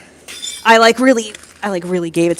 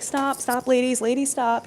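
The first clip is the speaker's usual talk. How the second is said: joking around; 6 semitones higher, slower than usual. Retold or imitated. Woman teasing bickering male coworkers, high joking plea. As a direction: playfully break up a squabble, pitched up. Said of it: "I try to joke around".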